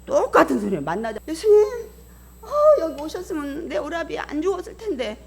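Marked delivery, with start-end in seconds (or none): 1.3-5.2 high, tearful mock wail; acted weeping. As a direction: act out a sister wailing to her Lord. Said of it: "그러면서 막 울어". (울먹이며 하소연하는 흉내)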